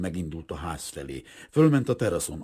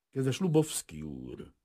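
slow, measured formal address, pitched up; slow, cool; 7 semitones higher, slower than usual. A narrator's reading. Store owner opening bad news to the suitor, slow and cool. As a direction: open coolly and slowly, voice lifted. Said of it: "lassú, hűvös hangon mondta".

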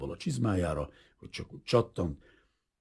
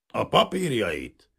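slow growl; 5 semitones higher, 4 dB louder, slower than usual. A narrator's reading. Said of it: "mordult rá németül".

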